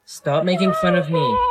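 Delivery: normal talking voice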